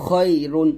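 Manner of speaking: খই heavy in the throat, rounded o; thick khoi. Shown as a demonstration. Teacher reads the whole word, thick khoi. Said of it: "এরকমভাবে এই সাতটা হরফ মোটা করে".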